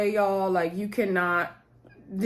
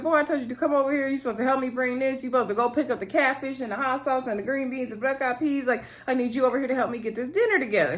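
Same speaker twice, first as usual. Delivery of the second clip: fast, higher nagging mother; scolding mom; 4 semitones higher, faster than usual. Retold or imitated. Mother ordering her son to come help with dinner, fast and high. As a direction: rattle off orders like a fed-up mom.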